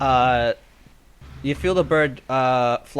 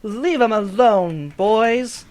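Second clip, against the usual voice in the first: put-on high, louder scolding girl voice; 10 semitones higher, 6 dB louder than usual. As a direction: shoo the birds off the old lady. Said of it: "and you hear".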